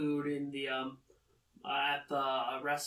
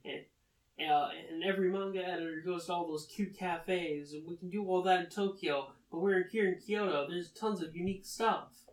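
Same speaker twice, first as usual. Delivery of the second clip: higher-pitched insistent objection; brisk, mildly exasperated retold protest; cutting her off; 3 semitones higher than usual. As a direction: argue the point over someone. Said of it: "Nasa just cuts her off".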